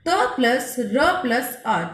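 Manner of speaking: "त plus र plus अ" built up slowly, each part spaced; slow spelling. Shown as a demonstration. Teacher builds the conjunct "त plus र plus अ" slowly for pupils. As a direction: break "त plus र plus अ" into parts slowly. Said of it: "त्रिशूल वाला त्र".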